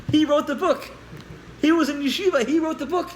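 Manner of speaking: high, forceful storytelling outburst; emphatic exclamation. Real, not acted. Storyteller marvelling that the man is the author, emphatic. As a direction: drive it home, pitched well up. Teller stresses the story's irony.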